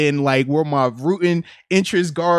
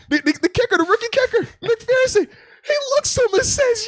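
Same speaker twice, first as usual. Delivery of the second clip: hyped storytelling. Real, not acted. Hyped telling of kicker story.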